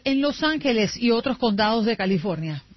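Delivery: crisp headline read; news read. Acted.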